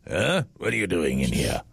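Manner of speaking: mock French-accented rooster. Rooster confronting his keeper in the coop, French accent. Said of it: "does my rooster have a French accent".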